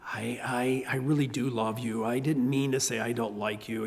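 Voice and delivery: hushed, whispered little apology; a mild hint of tearful child; a child who comes back crying to apologize; soft child's apology. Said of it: "come back crying and say".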